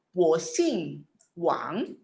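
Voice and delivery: drawn-out, syllable by syllable, rising at the end; slow model reading. Shown as a demonstration. Teacher modelling a Mandarin phrase for students, slow and drawn out. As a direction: say it very slowly for learners to copy.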